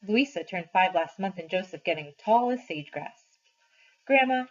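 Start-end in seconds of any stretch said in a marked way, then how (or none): 4.1-4.5 put-on a child calling his grandma, pitched up; little boy calling out; child's call. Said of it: "he says".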